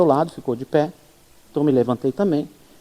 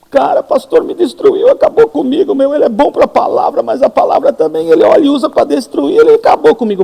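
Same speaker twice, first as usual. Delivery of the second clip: higher, louder wounded grumbling; hurt complaint; 8 semitones higher, 5 dB louder than usual. Retold or imitated. Congregant complaining to Márcio about the pastor, higher and louder wounded whine. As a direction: whine that the pastor crushed you.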